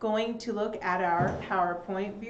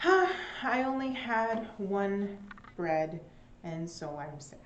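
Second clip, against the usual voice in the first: mock sad. Shown as a demonstration. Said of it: "I'm very sad".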